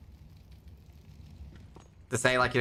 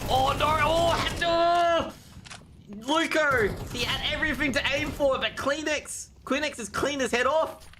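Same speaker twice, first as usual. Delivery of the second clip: excited shout; slower than usual. Real, not acted. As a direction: scream the play as it happens. Caster hype at a clutch kill.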